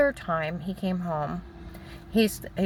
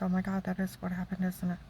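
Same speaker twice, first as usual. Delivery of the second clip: soft, subdued recognition; quiet retold realisation; 8 dB quieter than usual. Wife realising why husband hurt her, said softly. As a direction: let it sink in under the breath.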